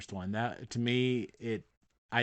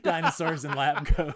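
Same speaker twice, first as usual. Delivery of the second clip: laughing; 4 semitones higher, 5 dB louder than usual. Real, not acted. Laughing at own joke.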